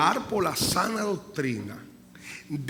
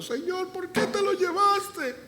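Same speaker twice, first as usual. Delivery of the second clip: grieving cry. Acted. Grieving relative cries out.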